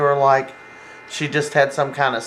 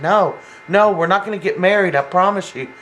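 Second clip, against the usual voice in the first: insistent, higher-pitched mock protest; retold urgent denial; 4 semitones higher than usual. Boyfriend promising his upset girlfriend, urgently insistent. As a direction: imitate a hurried, emphatic promise.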